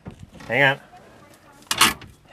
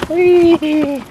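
excited; 12 semitones higher, 6 dB louder than usual. Real, not acted. Riding downhill on a cart.

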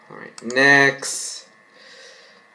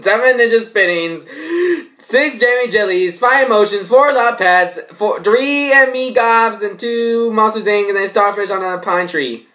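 building recital; 4 semitones higher than usual. Acted. Vlogger reading twelve days parody, climbing to a shrill finish. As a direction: build excitement down the list.

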